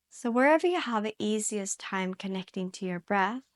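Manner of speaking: calm yoga instruction with long pauses; guided meditation. Real, not acted. Yoga teacher guiding students into their breath, calm guided meditation. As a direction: guide gently, leaving space to breathe between phrases.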